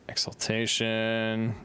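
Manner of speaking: slow breathy whisper. Real, not acted. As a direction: whisper the name. Whispered item name.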